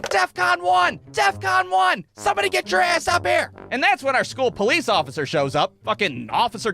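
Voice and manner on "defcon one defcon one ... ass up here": high, frantic yell into a phone; panicked teacher calling for backup. Retold or imitated. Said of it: "she gets on the phone, and she's like".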